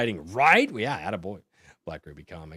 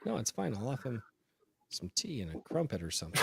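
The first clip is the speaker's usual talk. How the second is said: mock British; 2 semitones higher, 10 dB quieter, faster than usual. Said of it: "the British be like".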